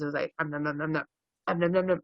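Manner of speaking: mime a raccoon nibbling a raspberry; munching noises. Shown as a demonstration. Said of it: "it looked like this".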